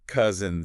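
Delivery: COUSIN slow, weight on COUS; first-syllable stress. Shown as a demonstration. Teacher modelling a family word, first part stressed. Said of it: "Stress on the first part again".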